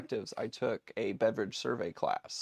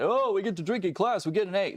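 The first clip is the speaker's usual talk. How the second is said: mock naive student; 7 semitones higher, 4 dB louder, faster than usual. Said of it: "everybody thinks this class is like".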